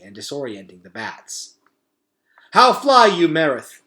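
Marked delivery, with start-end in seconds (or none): 2.5-3.8 high, loud yell across the fight. A narrator's reading. Henry calling to Merith mid-battle, loud yell. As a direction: shout the question over the battle. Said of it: "yelled Henry".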